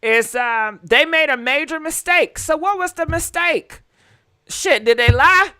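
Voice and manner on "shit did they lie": shocked outburst. Real, not acted. Shocked reaction to news.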